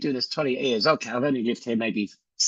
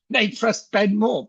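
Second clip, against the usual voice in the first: laughing; 7 semitones higher, slower than usual. Real, not acted. Laughing aside.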